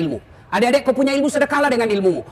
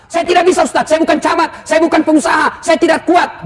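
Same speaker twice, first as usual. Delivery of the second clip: high, loud whining excuses; whiny excuse-maker; 7 semitones higher, 6 dB louder than usual. Retold or imitated. A reluctant congregant pleading to the preacher, high loud whining. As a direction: plead helplessness like a lazy congregant. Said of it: "excuses of reluctant people".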